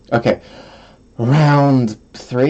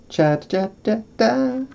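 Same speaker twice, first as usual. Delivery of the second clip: vocal warm-up cha; 12 semitones higher, slower than usual. Shown as a demonstration. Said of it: "can I do vocal training".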